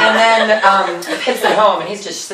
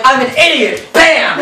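mock outburst; 3 semitones higher than usual. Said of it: "always terrified me every time he did it".

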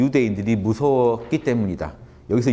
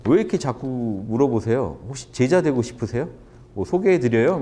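cheeky comeback. Retold or imitated. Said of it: "확 치고 나갑니다".

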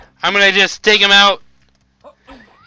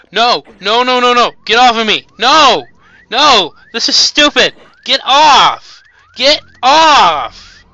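panicked yelling; 5 semitones higher, slower than usual. Real, not acted. Gamer swarmed by enemies, shouting in panic. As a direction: yell at the enemies to get off you.

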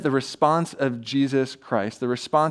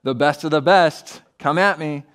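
sarcastic mock; 4 dB louder than usual. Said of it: "not being sarcastic".

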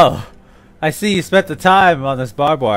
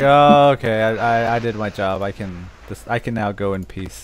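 resigned dying soldier; 4 semitones lower than usual. Retold or imitated. Retelling a soldier's last thoughts after his job, mock resigned. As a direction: let it fade down into mock acceptance. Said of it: "then he's like".

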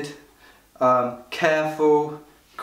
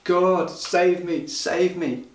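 cried out prayer; 4 semitones higher, slower than usual. Acted. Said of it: "He cried out to God".

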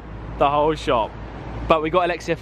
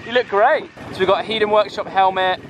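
inside a helmet; 2 semitones higher than usual. Real, not acted. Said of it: "Excuse the enduro helmet for this".

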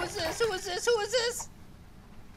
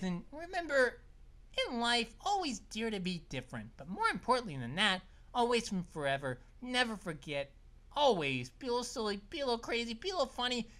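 softer, earnest farewell; sincere sign-off; 3 semitones lower, 5 dB quieter than usual. Real, not acted. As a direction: say it like heartfelt advice.

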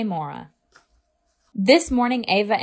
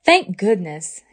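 relieved sigh. Acted. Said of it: "sighed in relief".

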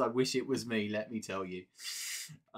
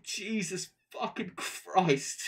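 slower, breath let out, calmer disbelief; sighing exclamation; 4 semitones higher, slower than usual. Real, not acted. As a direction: exhale it, still amazed but settling. Calmer after a sigh.

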